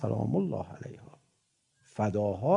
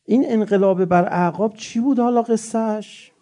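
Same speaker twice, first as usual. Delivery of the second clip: fiery question; 10 semitones higher, 6 dB louder than usual. Real, not acted. Preacher's fiery rhetorical question.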